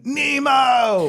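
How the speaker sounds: high-pitched yelled name; imitated yell. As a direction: call it out like a character yelling for help. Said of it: "just keeps yelling".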